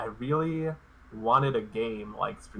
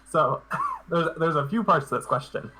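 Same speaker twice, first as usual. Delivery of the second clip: choking; 4 semitones higher, 3 dB louder than usual. Real, not acted. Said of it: "Sorry, I'm choking".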